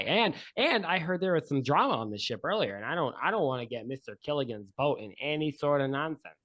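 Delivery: a hint of a jittery cook backing off; nervous boat cook. Steve frets to the couple about the dangerous ship, lightly voiced.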